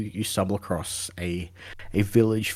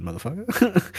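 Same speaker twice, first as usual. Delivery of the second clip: mock yell; 11 semitones higher, 4 dB louder than usual. Guard insult, retold.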